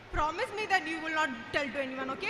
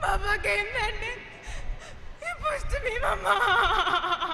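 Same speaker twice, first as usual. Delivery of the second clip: put-on tearful child; 4 dB louder, much slower than usual. Child tearfully tells her mother.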